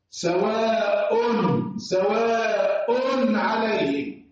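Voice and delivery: slow chanted tajweed reading of سواء عليهم with the nun of the tanwin said clearly; drawn-out Quran recitation, clear nun; Quranic recitation. Shown as a demonstration. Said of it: "ده أنا قلت أن نطقت التنوين نون ساكنة".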